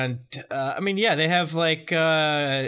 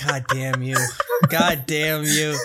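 mock anguished curse; 4 dB louder than usual. Mock cursing, cry heard.

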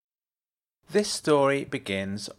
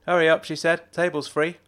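Jenna's voice; 6 semitones higher, 4 dB louder than usual. A narrator's reading. Jenna urging him along.

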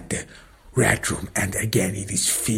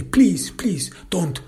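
pleading; 4 semitones higher than usual. Retold or imitated. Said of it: "this scumbag begs me".

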